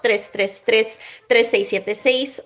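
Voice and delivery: number read slowly and clearly. Shown as a demonstration. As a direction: spell out each digit carefully. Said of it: "La abogada lo dice más bonito".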